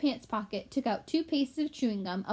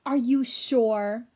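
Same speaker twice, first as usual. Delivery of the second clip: slow, whispered suspicion; suspicious; 6 dB louder, much slower than usual. Acted. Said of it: "asked Sorrel suspiciously".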